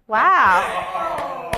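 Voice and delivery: words stretched through a pretend yawn; fake yawn. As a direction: yawn it out on purpose. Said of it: "That was a fake yawn".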